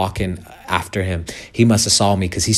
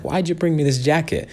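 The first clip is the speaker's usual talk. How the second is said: pitched-up, puzzled voice of the man on the street; the man asking why he got a jacket, higher puzzled voice; voiced stranger's question; 9 semitones higher than usual. The stranger asking the pastor why, lightly voiced surprise. Voicing the homeless man's question.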